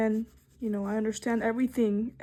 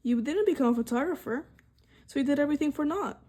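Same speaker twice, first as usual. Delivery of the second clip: mocking critics; faster than usual. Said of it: "the power to tell me".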